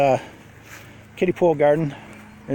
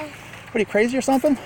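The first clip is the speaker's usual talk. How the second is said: mock surprised; 8 semitones higher than usual. Real, not acted. Kids climbing the fence.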